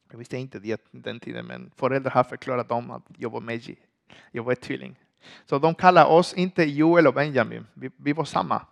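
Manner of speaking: normal talking voice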